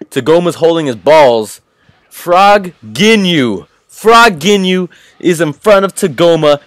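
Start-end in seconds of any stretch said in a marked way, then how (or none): 2.1-6.6 excited. Real, not acted. Excited recap of frog Ginyu.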